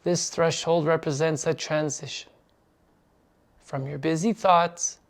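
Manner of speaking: measured guiding voice with long pauses; unhurried meditation instruction; guided meditation. Acted. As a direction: lead them gently into stillness. Leads the meditation.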